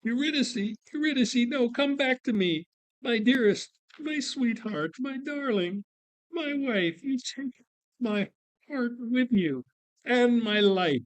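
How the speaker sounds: high, pleading lament; grieving husband. Acted. Orpheus mourning his dead wife, high pleading lament. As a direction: call after her in grief.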